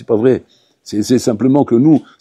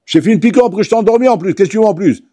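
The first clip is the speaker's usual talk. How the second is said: plus aigu, ton exaspéré; s'indigner devant le patient; dentiste exaspéré; 7 semitones higher, faster than usual. Acted. (dentiste agacé qui s'emporte)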